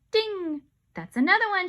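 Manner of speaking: high, loud shout; excited shout. Acted. Andrea shouting about another sale, high. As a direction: call it out eagerly. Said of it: "shouted Andrea".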